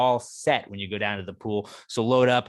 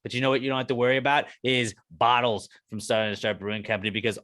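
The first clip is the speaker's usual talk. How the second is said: ad read. Acted. Sponsor ad read.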